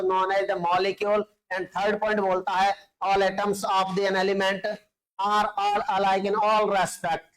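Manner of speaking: spelling out the notes word by word for students to copy; slow, measured dictation pace. Shown as a demonstration. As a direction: read it out slowly so the class can write it down. Teacher dictating notes slowly.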